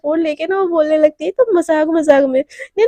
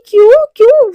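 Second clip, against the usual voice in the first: indignant why; 7 semitones higher, 7 dB louder than usual. Acted. Naina protests separate rooms.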